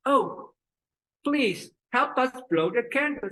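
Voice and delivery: high pleading father; mouth twisted left. Acted. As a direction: beg out of the left side of the mouth. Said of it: "His mouth is twisted to the left".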